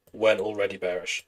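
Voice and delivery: flat robot voice. Real, not acted. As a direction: talk like a robot. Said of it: "I sound like a robot".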